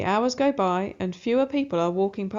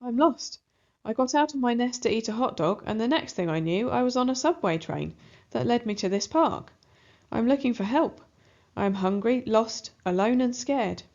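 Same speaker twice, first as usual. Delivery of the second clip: crying out; 2 semitones higher than usual. Acted. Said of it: "Rose cries".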